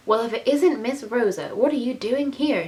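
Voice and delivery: lightly voiced American maid in a Western accent; heavy Western accent. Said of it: "she asked in her heavy Western accent".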